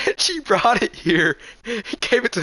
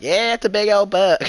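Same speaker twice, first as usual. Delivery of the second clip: put-on good old boy; 5 semitones higher than usual. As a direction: play the confident local hunter bragging. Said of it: "here comes this good old boy".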